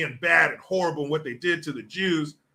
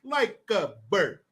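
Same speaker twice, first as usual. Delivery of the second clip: slow movie line; 3 semitones higher, slower than usual. Retold or imitated. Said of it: "He goes".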